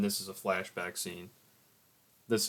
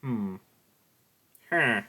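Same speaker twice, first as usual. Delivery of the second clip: odd hum; 3 semitones higher, 8 dB louder than usual. Real, not acted. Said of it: "I don't know why I said it like that".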